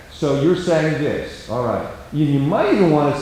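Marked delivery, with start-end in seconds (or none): 0.1-1.9 slow, soft and settled; calm paraphrase. Shown as a demonstration. Counselor paraphrasing a quarrelling spouse, calm and slow. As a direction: mirror it back gently and unhurried. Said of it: "If you can talk in a calm, slow tone".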